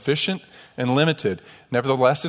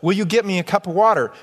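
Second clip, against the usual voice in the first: frustrated retort; 4 semitones higher than usual. Retold or imitated. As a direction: argue with the waiter, exasperated and pressing. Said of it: "I'm so frustrated".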